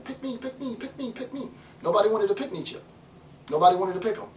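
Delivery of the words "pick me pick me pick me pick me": high, eager pleading; breathy high pleading with a laugh; eager zealot. Retold or imitated. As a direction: beg to be chosen, like a hand-waving student. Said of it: "He's the zealot waving his hand".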